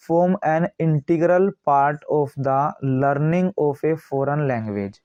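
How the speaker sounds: slow, word-by-word dictation reading; steady, spaced reading of a textbook line. Acted. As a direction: read it out like dictation to a class. Reads the English text slowly.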